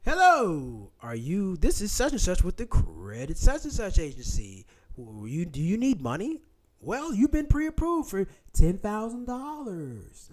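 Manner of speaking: lightly voiced loan telemarketer; mock scam caller. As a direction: imitate a pushy sales pitch, drawing out the offer. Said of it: "A lot of phone calls".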